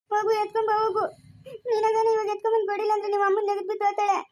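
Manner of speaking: tearful whining threat; crying. Acted. Wife crying at husband to fetch the sweets. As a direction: cry it out while cursing.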